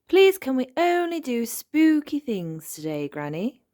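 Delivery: put-on eager child's request, pitched high; high, excited little-girl pleading; Peppa. A narrator's reading. Child begging granny for a spooky day, eager and high. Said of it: "asked Peppa".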